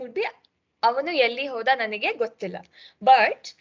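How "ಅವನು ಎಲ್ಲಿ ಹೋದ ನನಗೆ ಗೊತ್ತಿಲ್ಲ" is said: his own South Karnataka Kannada, quick and even; South Karnataka accent, said naturally and fast. Shown as a demonstration. Teacher demonstrating the South Karnataka Kannada accent to students. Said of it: "this is the accent used in South Karnataka".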